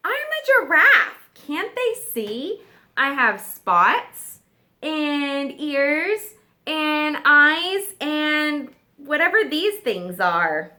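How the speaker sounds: a put-out giraffe listing his features; exasperated giraffe. Acted. Giraffe frustrated explaining.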